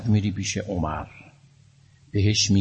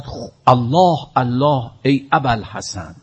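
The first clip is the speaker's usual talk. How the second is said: terrified cry; 3 semitones higher than usual. Retold or imitated. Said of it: "عمر فریاد زد".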